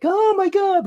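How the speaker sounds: high, loud gasped oh my god; mock dismay. Songwriter voicing dismay at the old church torn down. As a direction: play it shocked.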